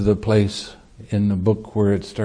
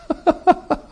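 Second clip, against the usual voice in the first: high laugh. Real, not acted. Laughs at the story's end.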